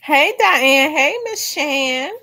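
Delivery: talking while chewing apple; biting an apple. Real, not acted. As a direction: mouth full of apple. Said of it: "I'm chomping on an apple".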